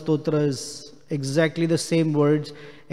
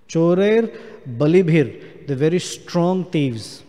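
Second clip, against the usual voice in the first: Chorair called out high and loud; emphatic exclaim; 4 semitones higher, 4 dB louder than usual. Acted. Teacher bursts out the word for thieves, loud and high.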